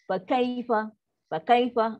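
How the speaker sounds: "kaifa" quick, cut off; clipped recitation. Shown as a demonstration. Teacher repeats the wrong cut-off "Fa kaifa". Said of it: "itulah yang berlaku".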